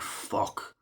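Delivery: whispered, breathless curse; mock scared whisper; whispered dread. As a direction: breathe it out in fear. Viewer dreading the height.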